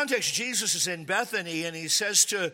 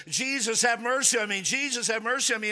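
mild pleading call, slightly raised; begging cry; 3 semitones higher than usual. Acted. Blind beggar crying out to Jesus, mildly pleading. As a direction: beg as you call out for help. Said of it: "he's begging".

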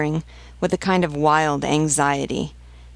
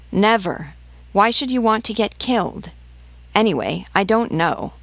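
higher-pitched, mildly heated protest; exasperated refusal; 5 semitones higher than usual. Acted. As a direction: refuse her with a touch of alarm. Peasant refuses the mother's plea.

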